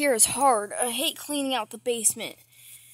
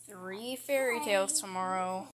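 muttered promise; 6 semitones lower, 7 dB quieter than usual. Acted. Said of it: "keep saying it".

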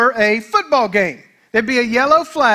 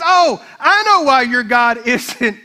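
slow, laughing sarcastic jab; a light mocking trash talk; mocking taunt; 3 semitones higher than usual. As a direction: tease the rivals with a smirk. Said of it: "He says / trash talk".

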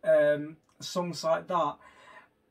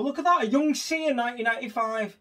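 excited surprise; 6 semitones higher, 5 dB louder than usual. Real, not acted. Spotting a young singer in video.

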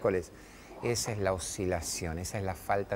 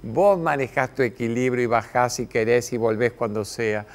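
louder, steady fatherly instructions; Spanish: papá firme y calmo; calm firm father; 2 semitones higher, 7 dB louder than usual. Retold or imitated. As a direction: coach a climbing child to keep balance. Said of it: "Yo decía".

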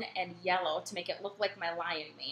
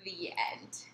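whispered; 2 semitones lower, 7 dB quieter than usual. A narrator's reading. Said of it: "whispered story close".

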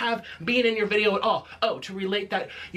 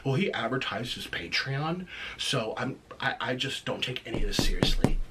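mocking quote; 8 semitones lower than usual. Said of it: "you have the nerve to say".

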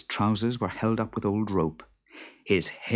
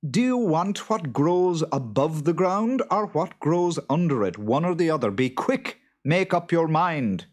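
higher, louder, brisk urging; impatient wife; 10 semitones higher, 4 dB louder than usual. A narrator's reading. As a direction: press for an answer in a raised voice. Wife presses boggart to choose.

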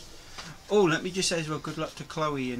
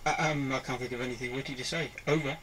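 crackly military radio; 2 semitones lower, 3 dB quieter than usual. Pretend. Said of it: "it's like your walkie-talkie".

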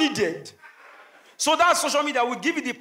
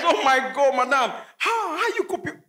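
mock sweet fan. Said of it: "pretend and be nice".

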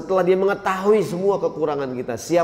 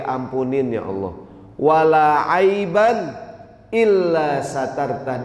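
slow, drawn-out supplication; solemn, unhurried prayer voice; prayer recitation; 3 semitones lower, slower than usual. Acted. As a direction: recite with long, measured vowels.

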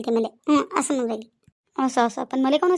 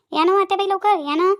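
higher, raised voice calling mother-in-law; 4 semitones higher, 4 dB louder than usual. Acted. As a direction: call her to come quickly. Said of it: "पहा किती एवढा आवाज देऊ राहिली". (वरच्या पट्टीत हाक)

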